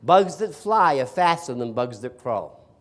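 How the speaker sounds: slow, loud mock enthusiasm; sarcastic. Student answering the professor's question, heavily sarcastic. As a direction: gush with exaggerated, drawn-out sarcasm. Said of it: "I said sarcastically".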